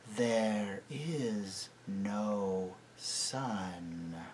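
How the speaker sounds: very slow, soft, low voice. A narrator's reading. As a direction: sink it down softly. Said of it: "in a softer and deeper voice".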